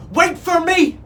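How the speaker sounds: high, loud desperate screech; pleading parrot shriek. A narrator's reading. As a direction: screech after the departing boat. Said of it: "screeched Neptune".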